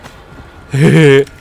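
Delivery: loud short laugh; burst of laughter. Real, not acted. Streamer laughing as his character suddenly dies.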